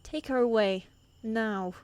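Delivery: loud, sharp order to the guards; commanding shout. Acted. Queen shouting at guards to take assassin away, commanding. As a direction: bark it at the guards.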